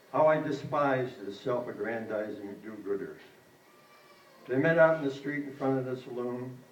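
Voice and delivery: measured narrative poem recital; poetry reading. A narrator's reading. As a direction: recite a story poem, phrase by phrase. Reads second poem aloud.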